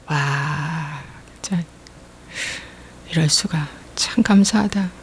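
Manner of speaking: awed whisper. Retold or imitated. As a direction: breathe it out in quiet wonder. Marvelling at grace inwardly.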